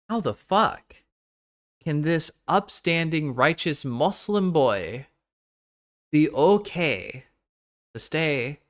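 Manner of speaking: put-on a clumsy half Arabic, half Irish accent. Mimicking Anissa in a botched Arabic-Irish accent. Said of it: "I'm trying to do, like, a half Arabic, half Irish accent".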